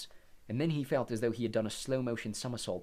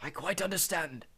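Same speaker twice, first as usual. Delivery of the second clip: put-on slow, lightly higher old wizard; a hint of calm old Dumbledore; 7 semitones higher than usual. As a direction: reassure the boy calmly. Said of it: "said Dumbledore".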